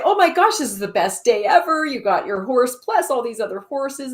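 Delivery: high, loud mock excitement; thrilled neighbours. Neighbours cheer farmer's herd of horses, mock excitement. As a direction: gush like overjoyed neighbours in a retold tale.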